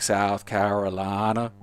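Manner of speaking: slow, long Southern drawl; imitating a Southern American accent, drawn out. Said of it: "the most fucking amazing Southern American accent".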